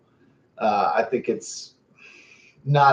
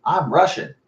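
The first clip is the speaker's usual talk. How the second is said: imitated pride, higher pitch; proud declaration; 4 semitones higher than usual.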